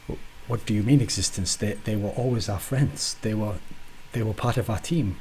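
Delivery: bad French accent, lightly done; hammed-up French accent. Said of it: "a French accent".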